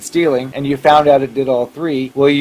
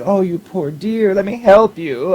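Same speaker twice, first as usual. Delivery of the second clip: mock sympathy; 6 semitones higher than usual. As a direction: coo it like a sucker taken in. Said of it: "they want you, of course, to be like".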